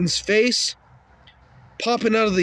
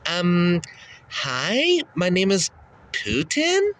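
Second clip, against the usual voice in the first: high timid Putin; slower than usual. Retold or imitated. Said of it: "his voice goes up a few pitches".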